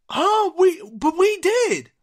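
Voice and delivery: put-on confused kid. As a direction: drag it out, baffled and whiny. Kid corrects dad.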